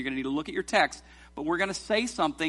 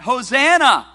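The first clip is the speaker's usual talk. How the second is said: loud, high cry of welcome; shouting hosanna; 7 semitones higher, 11 dB louder, slower than usual. Acted. Crowd on the road hailing Jesus, loud joyful cry. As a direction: call it out like the crowd greeting a king.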